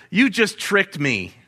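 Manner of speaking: chuckling at being fooled; amused, caught-out laugh. Real, not acted. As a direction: laugh through the words. Laugh on the line.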